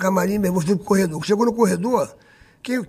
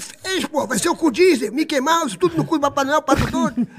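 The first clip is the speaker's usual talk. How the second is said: indignant retelling; 5 semitones higher than usual. Retold or imitated. Retold indignant answer to Xuxa.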